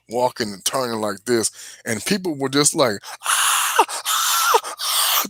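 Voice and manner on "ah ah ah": imitated screams. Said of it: "They were screaming their heads off".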